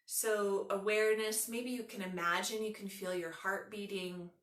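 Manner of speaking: unhurried yoga nidra guiding voice, long pauses; measured relaxation instructions with room to breathe; guided meditation. Acted.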